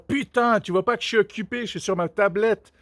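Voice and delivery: mildly irritated mock child; acted-out touch of exasperation; annoyed kid. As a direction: snap lightly like an interrupted kid. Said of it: "le gosse qui s'énerve".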